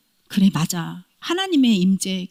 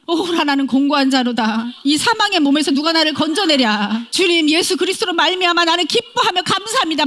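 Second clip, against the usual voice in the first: impassioned cry; 5 semitones higher, 3 dB louder than usual. Retold or imitated. Quoting Paul's cry in prayer.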